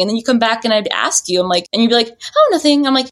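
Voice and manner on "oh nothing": mock nonchalant. Retold evasive answer to her question.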